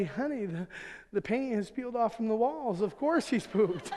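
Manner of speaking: sugar-coat it while holding back disgust; trying to sound loving. Retold or imitated. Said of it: "I'd try to say so lovingly".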